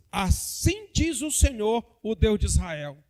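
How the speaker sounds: slow, weighty proclamation of the prophecy; solemn scripture reading. Acted. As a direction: read it out slowly, like a prophet speaking. (leitura solene e lenta)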